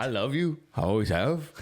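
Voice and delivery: mock Scottish love declaration; lilting, hammed-up Scottish accent; Mel Gibson. Imitating the film's hero declaring love, mock Scottish. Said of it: "Mel Gibson had a pretty good Scottish accent".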